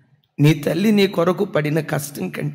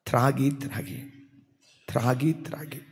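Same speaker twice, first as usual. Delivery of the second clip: hushed repetition; 2 semitones lower, 5 dB quieter than usual. Acted. Repeating drinking, hushed. (మెల్లగా నెమ్మదిగా పునరావృతం)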